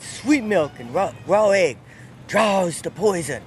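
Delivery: lightly voiced old Southern man, slowing at the end; a hint of a backwoods Florida man giving a remedy. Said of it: "I have to speak like him".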